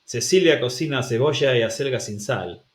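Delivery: mock Argentinian, S for every C and sh in cebolla; a rough Argentinian lilt with cebolla as sebosha; terrible Argentinian accent. Shown as a demonstration. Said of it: "I apologize for a terrible Argentinian accent".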